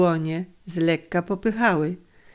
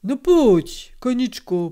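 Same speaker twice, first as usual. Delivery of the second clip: kindly coaxing; 5 semitones higher than usual. A narrator's reading. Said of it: "jął dobrotliwie przemawiać".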